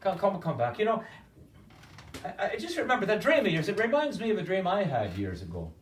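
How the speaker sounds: wait called out high and loud; calling back. Acted. Innkeeper calls the leaving peddler back, high and loud.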